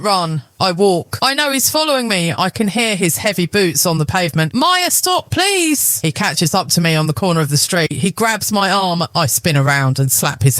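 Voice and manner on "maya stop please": high, pleading cry; desperate begging. A narrator's reading. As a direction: beg her to stop. Husband begging, chasing.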